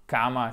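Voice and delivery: "Kama" as KAH-ma, no glide; long open vowel. Shown as a demonstration. Teacher names the virgule word, long open A. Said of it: "c'est la virgule".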